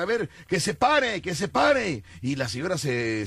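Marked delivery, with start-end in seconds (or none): 0.0-2.0 high, slow calling host; hyped fairground barker. Retold or imitated. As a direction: call out slowly to the crowd. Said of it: "el conductor ... decía".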